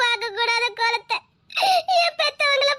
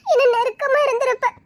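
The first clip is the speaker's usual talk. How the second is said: breaking into tears on the words; tearful, heartbroken admission; crying. Acted. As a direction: let the sob catch the line. Crying over her lost trust.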